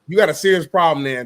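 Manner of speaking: loud mocking jab at a friend; loud callout. Real, not acted. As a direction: call him out loud. Calling his friend out.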